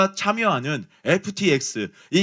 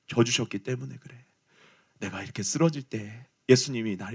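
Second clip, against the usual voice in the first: tender reassurance; 4 semitones lower than usual. Retold or imitated. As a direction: comfort him like a big brother. Squad leader comforts crying junior.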